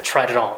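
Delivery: "Try it on" linked, t flapped like a Japanese r; American-style flapping. Shown as a demonstration. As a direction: tap the t in "Try it on" as try-ri-ron. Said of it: "そんな感じですね".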